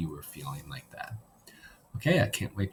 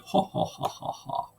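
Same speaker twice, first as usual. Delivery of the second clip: demonic villain laugh; 6 dB quieter than usual. Acted. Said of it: "sound like a demonic villain".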